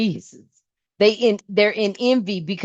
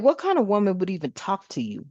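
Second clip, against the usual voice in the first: incredulous quote; 3 semitones lower, 7 dB quieter than usual. Retold or imitated. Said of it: "I'm like".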